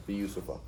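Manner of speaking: "Yusufa" ending in an open a; fatha ending. Shown as a demonstration. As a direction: end "Yusufa" on -fa, with no n. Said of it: "will have a fatha in place of a kasra".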